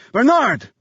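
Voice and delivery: high, loud desperate yell; yelled name. A narrator's reading. Wounded visitor shouting for Bernard, desperate yell. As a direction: cry out through the door. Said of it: "the visitor yelled".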